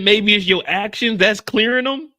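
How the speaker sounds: mock doctor. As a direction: play the know-it-all doctor, a touch hammy. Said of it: "he just looked at her and said".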